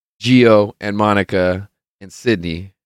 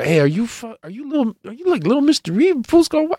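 much higher, squealing mock fan voice; imitating excited girl; 13 semitones higher than usual. Girl in the crowd recognising the costume, squealing higher imitation. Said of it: "She's like".

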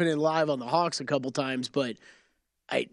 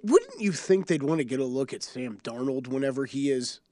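deadpan, barely hushed; straight face; 5 semitones lower than usual. Acted. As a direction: keep a straight face while joking. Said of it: "I'm trying to say with a straight face".

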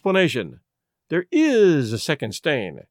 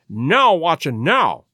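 frenzied eagerness; 3 dB louder, slower than usual. Acted. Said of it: "cried Holmes, with frenzied eagerness".

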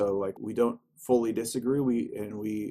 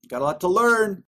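pitched way up and louder; high mock-wise voice; 10 semitones higher, 8 dB louder than usual. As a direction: echo it in a put-on lofty voice. Echoes in high voice.

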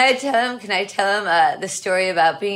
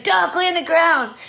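retold urgent warning; 7 semitones higher than usual. Retold warning during the shooting.

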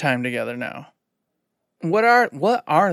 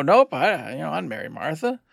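incredulous, pitched-up questioning; puzzled, softer rising plea; baffled protest; 4 semitones higher, 3 dB quieter than usual. Retold or imitated. Player questioning Martha's aged looks, baffled protest. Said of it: "I go".

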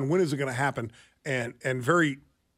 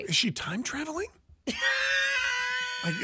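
laughing, high-pitched. Real, not acted. Joking about time zones.

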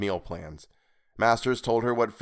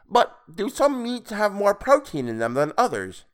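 creepy high voice; 12 semitones higher, 4 dB louder than usual. Acted. Creepy stranger character voice.

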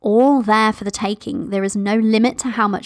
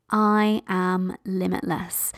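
very slow, softer gentle affirmation; gentle near-whisper; 3 semitones lower, 5 dB quieter, much slower than usual. Shown as a demonstration. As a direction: let it fade slowly as if to yourself. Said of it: "you can even whisper to yourself".

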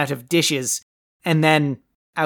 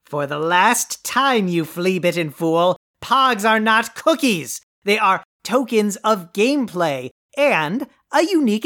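exasperated correction. Acted. Correcting a fool yet again.

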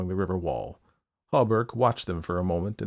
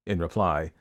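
plain reading voice

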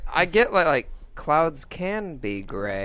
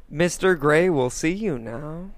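flat robotic delivery. Retold or imitated. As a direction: say it like a cold robot.

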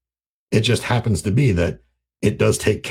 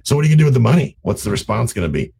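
overbearing jackass; 4 semitones higher, 4 dB louder, faster than usual. Retold or imitated. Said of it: "like an overbearing jackass".

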